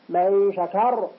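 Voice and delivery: شكر said slowly, ending on a heavy R. Shown as a demonstration. Teacher demonstrates a heavy R in شكر. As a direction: drag out شكر with a thick R. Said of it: "فإنها أيضًا تفخم".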